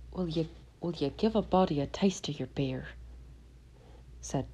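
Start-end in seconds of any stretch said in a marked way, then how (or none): 0.1-2.9 whispering. Acted. Tom asks timidly for beer.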